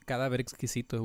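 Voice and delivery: Cadáver exquisito in native Spanish. Shown as a demonstration. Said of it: "we call it in Spanish".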